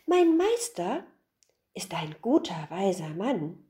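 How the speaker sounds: put-on a cheeky boy repeating his excuse. (höhere, verschmitzte Jungenstimme)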